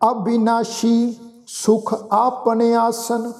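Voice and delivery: slow, measured chanting of the verse; scripture recitation. Shown as a demonstration. Sikh teacher recites Gurbani for the congregation, slow and measured. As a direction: recite each phrase slowly and reverently.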